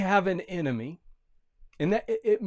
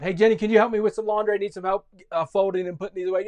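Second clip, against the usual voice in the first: quick, slightly raised grandma voice; Grandma asking; 4 semitones higher, 4 dB louder, much faster than usual. Acted. Grandma asking Jenny for laundry help, lightly acted quick voice. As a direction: rattle off a chore request.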